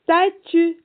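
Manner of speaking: long hissed S before the rest of "statue", loud and high; stretched initial S. Shown as a demonstration. Teacher asks children about S in statue, stretched initial S. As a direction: hold the first S of "statue", then finish firmly. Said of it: "Est-ce qu'on entend le S dans statue?".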